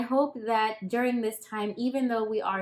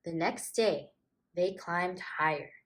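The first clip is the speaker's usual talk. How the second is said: put-on gentle storybook reading to children; story narration. A narrator's reading. Storyteller reading a picture book to kids, gently. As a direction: read it like a bedtime picture book.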